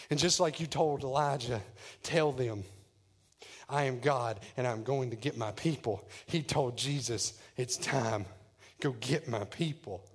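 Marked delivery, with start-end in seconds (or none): 2.0-6.1 much lower, softer voice; solemn command. Acted. God's command voiced in the sermon. 7.6-10.0 hushed, low divine commission; solemn command. Acted. God quietly commissions Jesus.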